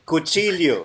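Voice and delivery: "cuchillo" said "kutsilyo"; Tagalog pronunciation. Shown as a demonstration. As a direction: Filipino "cuchillo" as "kut-sil-yo". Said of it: "that's how we spell it".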